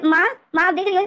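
nervous son begging his mother to look; flustered call. Retold or imitated. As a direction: call her to look, rattled. London flustered, calls mother.

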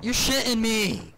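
high, loud and slow, dragging it out; furious disbelief. Real, not acted. Gamer furious at being killed, slow loud disbelief. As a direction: spit it out in disbelief.

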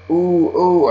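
loud, high eager ooh ooh; hollering real loud. Acted. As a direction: squeal it out to get picked. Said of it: "I hollered real loud".

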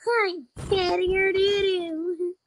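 put-on childish baby taunt, slowed; voice changer. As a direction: drag out "doo-doo" like a toddler. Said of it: "I'm using a voice changer".

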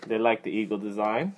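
muffled behind helmet chin bar; speaking inside a full-face helmet. Real, not acted. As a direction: voice slightly boxed in. Seen 1: Full-face helmet worn throughout; chin bar covers mouth, visor mostly open.

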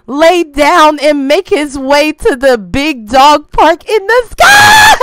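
hammed-up funeral speech breaking at the end; mock eulogy. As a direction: intone it slowly, then cry out the last words.

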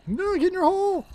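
high yell at enemies; frustrated yell. Real, not acted. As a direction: shout them back down. Yelling at mobs.

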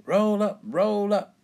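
high, loud call to the crowd; fairground barker's cry. A narrator's reading. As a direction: cry out brightly to draw punters to your stall. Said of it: "cries Miss Rabbit".

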